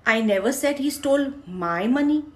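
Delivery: my is stressed, as if it was someone else's money. Shown as a demonstration. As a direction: hit my as if it was another's money. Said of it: "मैंने ये नहीं कहा उसने मेरे पैसे चुराए". (my पर ज़ोर, पैसे किसी और के थे)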